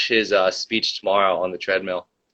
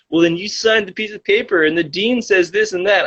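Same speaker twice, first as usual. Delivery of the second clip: high, prissy mock question; high mock-official voice; mocking the staffer; 10 semitones higher than usual. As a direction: parody a condescending clerk.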